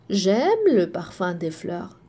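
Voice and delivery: low, settled answer; answering yes. Shown as a demonstration. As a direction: answer it plainly, pitch dropped low. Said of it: "Si je te pose la question".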